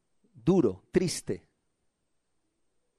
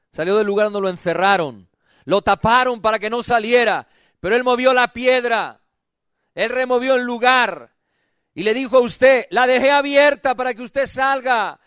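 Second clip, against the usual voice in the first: full-voiced, driving sermon delivery; impassioned preaching; 3 semitones higher, 5 dB louder than usual. Real, not acted. Preacher rousing a cold church into spring, impassioned preaching. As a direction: preach it, drawing out the phrase endings.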